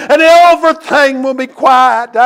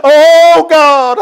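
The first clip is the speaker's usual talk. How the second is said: prayer cry; 4 semitones higher, 5 dB louder than usual. Acted. Preacher voicing a sinner's prayer.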